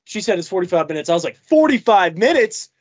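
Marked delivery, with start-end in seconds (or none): 1.4-2.7 slow, stretched-out disbelief; drawn out, louder, honestly shocked; shocked question. Retold or imitated. Retelling the drive-thru wait to friends, slow disbelief. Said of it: "Just, like, not being a dick".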